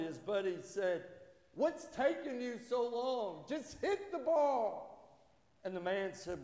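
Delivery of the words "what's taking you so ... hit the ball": high-pitched, exasperated mock outburst; aggravated. Golfer to his dawdling buddy, aggravated. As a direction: act out an impatient buddy losing it. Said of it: "clearly getting aggravated".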